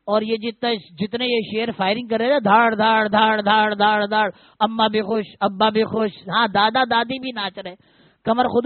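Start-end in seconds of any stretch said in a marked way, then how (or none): 2.4-4.3 rapid repeated mock gunshots; imitated gunfire. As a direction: fire off bang after bang, imitating celebratory shooting. شادی میں firing کی نقل. (فائرنگ کی آواز کی نقل)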